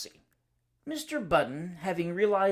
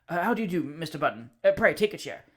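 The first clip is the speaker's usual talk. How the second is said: polite stammer; 4 dB louder than usual. Acted. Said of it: "politely stammered the discomfited Minns".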